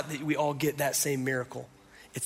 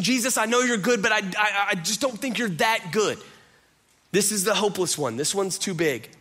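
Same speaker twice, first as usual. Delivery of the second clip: Martha again, much higher, pleading; doubting Martha; 6 semitones higher, 4 dB louder than usual. Retold or imitated. Martha telling Jesus her brother is beyond help, high pleading. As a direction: beg him to see it's hopeless. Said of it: "She's saying".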